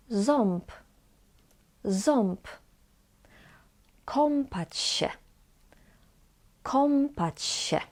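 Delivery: Ząb and Kąpać with ą said as "om". Shown as a demonstration. Teacher gives examples before B or P, ą as om. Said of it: "we pronounce it as".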